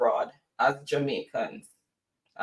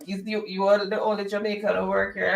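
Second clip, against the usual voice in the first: higher-pitched Jamaican patois question; 5 semitones higher than usual. Retold or imitated. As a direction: imitate a coworker asking in Jamaican patois. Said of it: "So we started talking patois".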